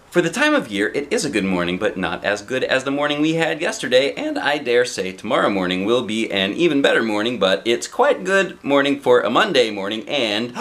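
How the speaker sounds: a touch of a breathless chatterbox rattling on; chatty nonstop talk. Acted. Miss Chatterbox talks at Mister Happy without pause, lightly voiced. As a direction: run it all together, barely stopping. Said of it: "said Little Miss Chatterbox".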